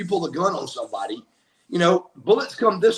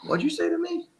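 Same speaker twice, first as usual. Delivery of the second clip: high, challenging brother voice; mock-indignant brother pitched high; brother confronting cop; 11 semitones higher, 4 dB quieter, faster than usual. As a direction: throw it back at the cop, pitched up.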